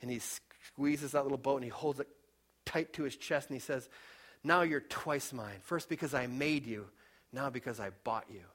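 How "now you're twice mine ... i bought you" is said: put-on tender boy. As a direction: whisper it like holding something precious. Boy hugs boat, tender words.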